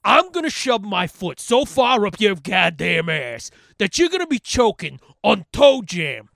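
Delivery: menacing put-on voice to the caller; mock threat. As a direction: threaten the robocaller in character. Threatening the robocaller.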